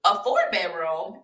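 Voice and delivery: questioning echo with a rising end; disbelieving question. Retold or imitated. Her replying to the realtor, surprised and questioning. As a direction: echo it back in retold disbelief.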